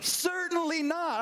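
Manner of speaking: Certainly not pitched high and punched hard; emphatic denial. Shown as a demonstration. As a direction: hit "Certainly not" high, falling firmly. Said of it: "that is an emphatic".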